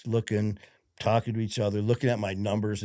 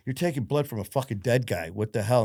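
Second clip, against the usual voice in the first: raised pitch, retold exasperation; indignant protest; 3 semitones higher than usual. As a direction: protest in disbelief, as in retelling a row. Retold protest at blood draws.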